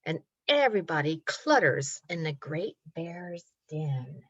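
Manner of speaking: rhythmic picture-book narration with stretched words; reading to children. A narrator's reading. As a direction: build suspense gently for little listeners. Reads story to children.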